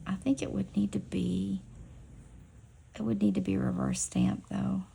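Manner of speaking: whispering to herself while stamping a nail; focused whisper under her breath. Real, not acted. Nail artist whispering to herself while she works, focused whisper.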